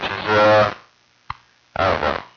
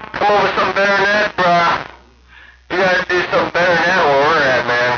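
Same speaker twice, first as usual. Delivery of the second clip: heated taunt; 8 semitones higher, faster than usual. Real, not acted. Mocking rival's rhyme over radio.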